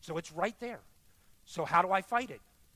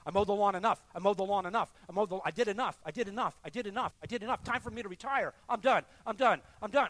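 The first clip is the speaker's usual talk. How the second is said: mock stubborn, louder, repeating; stubborn refusal; 3 semitones higher, 6 dB louder, faster than usual. Ernie refusing the Spirit, mock stubborn and louder. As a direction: dig in like a tired man quitting. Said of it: "What's Ernie doing?".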